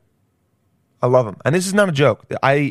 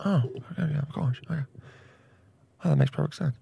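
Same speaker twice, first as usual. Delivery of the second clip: awed listeners; 3 semitones higher, 8 dB quieter than usual. Retold or imitated. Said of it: "everyone's like".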